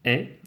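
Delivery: "est" as an open è; open-vowel "est", like è. Shown as a demonstration. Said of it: "E ouvert".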